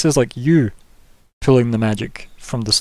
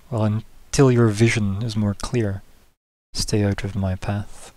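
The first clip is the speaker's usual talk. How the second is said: governor character; 2 semitones lower, slower than usual. Acted. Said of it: "She goes".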